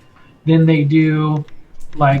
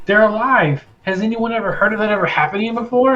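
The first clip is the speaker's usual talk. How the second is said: higher, hurried disbelief; amazed guard; 4 semitones higher, faster than usual. Acted. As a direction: turn to your comrades, mildly astonished. Stunned guard asking his men.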